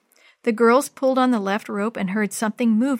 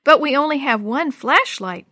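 worried cry, a bit louder; 4 semitones higher, 6 dB louder than usual. Acted. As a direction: cry it out in worry. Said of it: "Jenny cried".

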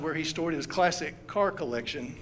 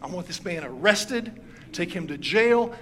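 angry demand; 2 semitones higher, 4 dB louder than usual. Retold or imitated. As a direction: demand the arrest with mock fury. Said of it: "The man called the same police".

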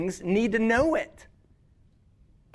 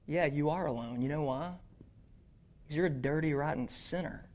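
enemy's taunt; 4 semitones lower, 8 dB quieter than usual. Acted. Preacher voicing the enemy's accusations.

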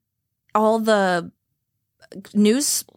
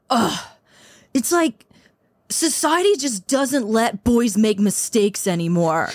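whiny man voice; 2 semitones higher than usual. Retold or imitated. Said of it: "said out loud".

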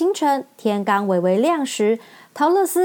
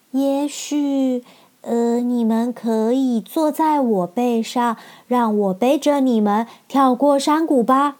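lightly voiced shy lion, hesitant; timid lion; 2 semitones higher, slower than usual. Lion timidly offers his friends a ride, hesitant voice. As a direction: offer it meekly, slowly. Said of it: "狮子才小小声地说".

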